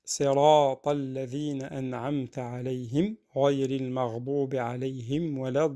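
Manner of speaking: full, sustained tajwid chanting; Quran recitation. Shown as a demonstration. Teacher reciting the verses for learners, sustained recitation. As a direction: recite evenly, holding the long vowels.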